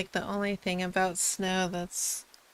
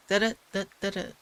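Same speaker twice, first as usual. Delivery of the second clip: "Da-da, da-da-da" tapped out in quick, even syllables; imitated robotic rhythm; 2 semitones lower, faster than usual. Mimicking the Siri hump, "Da-da, da-da-da" in quick rhythm. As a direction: mimic a synthetic voice's cadence on "Da-da, da-da-da". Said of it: "little hump of where it's like".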